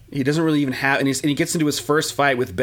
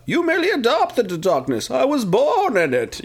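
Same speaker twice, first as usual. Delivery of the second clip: Bane voice; 10 semitones higher than usual. Retold or imitated. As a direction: ham up the villain quote. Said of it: "the line is".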